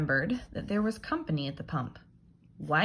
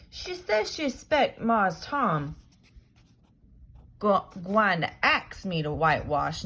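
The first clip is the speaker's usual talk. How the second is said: put-on loud, higher anxious boy voice; worried Jim; 5 semitones higher, 5 dB louder than usual. Jim explaining Aunt Polly's orders, loud and anxious. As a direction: fret about what missus said.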